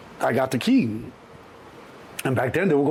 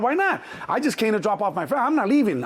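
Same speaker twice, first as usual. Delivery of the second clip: high-pitched arguing protest; indignant insistence; 6 semitones higher than usual. Retold or imitated. Passenger arguing with shuttle driver, indignant. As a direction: dig in and refuse to budge.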